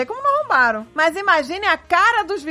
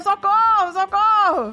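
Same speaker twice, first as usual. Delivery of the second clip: a higher mock parrot cry for help; 5 semitones higher, slower than usual. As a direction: squawk for help again and again. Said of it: "a voz continuava respondendo".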